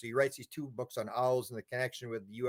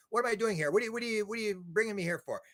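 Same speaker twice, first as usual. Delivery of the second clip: baffled question; 7 semitones higher, faster than usual. Retold or imitated. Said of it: "He's going".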